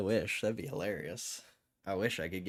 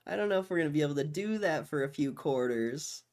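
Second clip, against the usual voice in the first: mock Jerome Powell; 6 semitones higher, 4 dB louder than usual. Mocking Jerome Powell in his voice.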